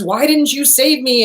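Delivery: indignant complaint from a joke, lightly acted; retold yell. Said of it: "he's yelling at Jesus".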